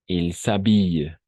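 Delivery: firm teacher correction; clear model correction. Shown as a demonstration. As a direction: model "Il s'habille" clearly for the student. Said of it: "correcting the student".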